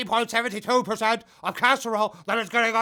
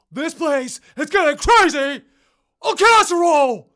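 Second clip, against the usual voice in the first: high, loud, frantic shouting; excited shout; 8 semitones higher, 13 dB louder than usual. Acted. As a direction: yell it like the place is going mad. Improv character shouting.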